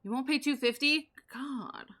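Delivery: you can't believe they refuse; indignant disbelief. Real, not acted. Shopkeeper to a stingy customer, indignant disbelief.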